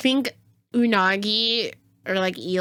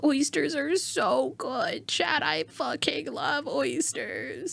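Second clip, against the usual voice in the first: breathy whisper, slow and hungry; whispered craving; 3 semitones higher, 6 dB quieter, slower than usual. Real, not acted. Gushing about oysters.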